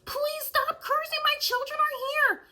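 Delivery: high, slow pleading plea; pleading mother. Retold or imitated. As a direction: beg him to stop like a frantic mother. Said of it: "the woman with the children was like".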